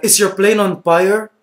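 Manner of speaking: lightly voiced anxious mother; worried mom. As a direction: ask it like a fretting mom. Voicing worried mom on the phone.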